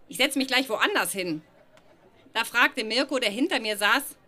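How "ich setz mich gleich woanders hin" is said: ordinary talk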